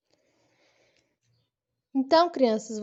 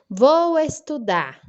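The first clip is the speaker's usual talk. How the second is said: slow, louder model sentence; example sentence; 3 semitones higher, 5 dB louder, slower than usual. Shown as a demonstration. Teacher showing children a complete sentence, slowly. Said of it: "Aí sim é um sentido completo".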